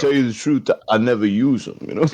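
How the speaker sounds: put-on slurred movie voice; Sly Stallone. Guest confessing to the host, still in a Stallone voice. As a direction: keep up the tough-guy slur, lightly. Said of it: "you gotta do it in the Sly voice".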